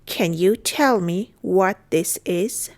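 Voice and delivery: slow, each word set apart; careful teaching pace; slow model repeat. Shown as a demonstration. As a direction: take it word by word for learners. Teacher repeats phrase slowly.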